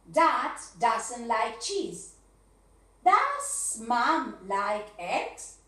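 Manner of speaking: slow, loud teacher dictation; slow and loud dictation, word by word; slow drill sentences. Shown as a demonstration. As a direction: spell it out for the class slowly. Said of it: "drills example sentences".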